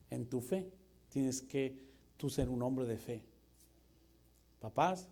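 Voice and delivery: ordinary talk, nothing marked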